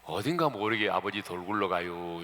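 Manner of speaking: mock Chungcheong accent. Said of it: "충청도 하면".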